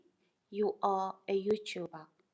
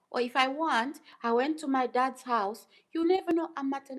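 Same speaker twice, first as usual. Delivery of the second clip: rising, louder, pressing the point; emphatic insistence; 6 semitones higher, 7 dB louder than usual. Real, not acted. Vlogger to suspicious viewers, getting louder and higher. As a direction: push each "never know" harder.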